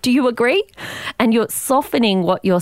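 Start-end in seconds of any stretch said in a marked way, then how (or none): 0.0-0.6 upspeak. Retold or imitated.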